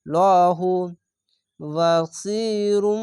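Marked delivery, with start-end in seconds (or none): 1.6-3.0 বাসিরুম slowly with nasal ম hum; slow recitation of বাসিরুম; iqlab ghunna. Shown as a demonstration. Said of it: "ইকলাব গুন্না".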